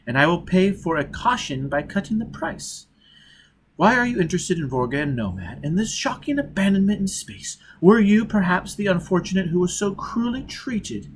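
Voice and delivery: oily, sly probing; greasy smile. Acted. Agent sounding out Foyle, a touch of greasy charm. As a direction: coax the secret out with a smirk. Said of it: "smiled greasily".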